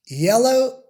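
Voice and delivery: yellow with a light gliding y; soft English Y. Shown as a demonstration. Teacher demonstrating the soft English Y. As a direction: ease into yellow softly. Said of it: "The Y sound is very soft in words like".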